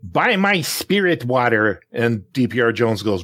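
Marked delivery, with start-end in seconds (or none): 0.0-1.8 slow, drawn-out huckster pitch; a hint of a TV preacher selling; televangelist pitch. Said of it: "there's Peter Popoff".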